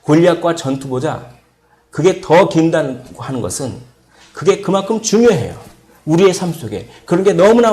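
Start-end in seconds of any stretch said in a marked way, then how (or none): none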